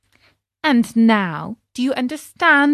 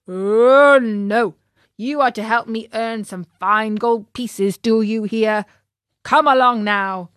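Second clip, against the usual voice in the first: a hint of a gruff circus master; stern master. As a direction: master ordering the donkey to work. Master scolds donkey.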